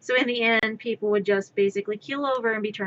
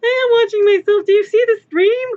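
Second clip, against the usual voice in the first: indignant outburst; 10 semitones higher, 8 dB louder than usual. Real, not acted. Defends herself to the chat.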